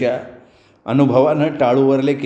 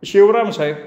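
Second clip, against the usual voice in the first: timid answer; 6 semitones higher than usual. A narrator's reading. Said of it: "Shivram भीत भीत बोलायला लागला".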